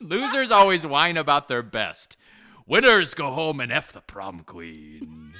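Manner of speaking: playful take on a Sean Connery-style Scottish delivery; mock Scottish movie line. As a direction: growl the line like the movie's hard man. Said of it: "Not my dialect".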